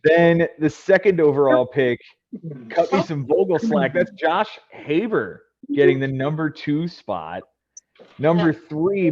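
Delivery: draft announcer. Acted. Host calling the number one overall pick, announcer style. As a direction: present the first pick like a big event.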